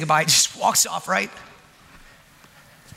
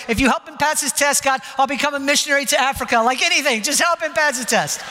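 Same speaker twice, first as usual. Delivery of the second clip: higher-pitched mock-desperate plea; desperate bargaining prayer; 6 semitones higher than usual. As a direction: bargain with God, imitating your own frantic prayer. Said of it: "I'm just praying".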